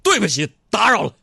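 loud, high-pitched mock-solemn apology; resounding declaration. Embarrassed customer to the boss, resounding retreat. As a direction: ring out a grand apology. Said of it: "掷地有声的一句话".

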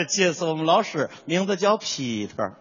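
Tianjin accent, drop the tone on Peter. Shown as a demonstration. Imitating a Tianjin classmate introducing the teacher, Tianjin accent. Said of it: "天津人那个声调往下去".

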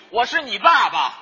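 mock quote. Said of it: "上台没几句，".

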